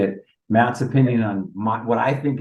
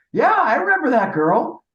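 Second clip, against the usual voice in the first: higher, louder shouted answer; yelled reply; 4 dB louder than usual. Retold or imitated. Teammate yelling back from the dugout, loud and high. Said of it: "he yells from dugout".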